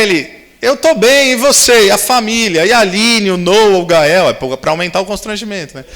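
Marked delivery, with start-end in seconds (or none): 0.6-4.3 alto e agudo, perguntando animado; entusiasmo retomado. Retold or imitated. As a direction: despeje as perguntas com alegria. Homem animado pergunta pela família. (pergunta animada pela família, agudo e alto)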